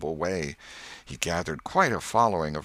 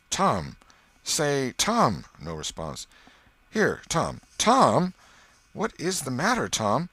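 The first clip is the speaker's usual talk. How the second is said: high, urgent worried calls; anxious, rising calls to a groaning brother; 8 semitones higher, 4 dB louder, slower than usual. Acted. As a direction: call out to wake a scared friend. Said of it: "looked in his face anxiously".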